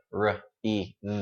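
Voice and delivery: "R, I, V" sounded one by one, each voiced; voiced sounds separately. Shown as a demonstration. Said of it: "Tất cả âm trong từ này có giọng".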